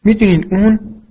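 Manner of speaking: high-pitched, indignant start that breaks off; acted outrage, cut short mid-sentence; furious outburst. A narrator's reading.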